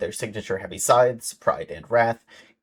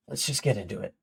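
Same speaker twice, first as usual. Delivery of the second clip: YouTuber voice; 7 dB quieter, faster than usual. Shown as a demonstration. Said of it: "YouTuber voice".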